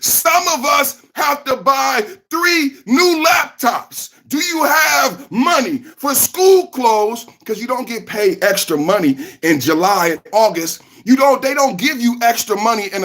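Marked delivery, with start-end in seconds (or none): 0.0-7.3 high, slow fake sob; mock crying. A broke parent fake-sobbing over school costs.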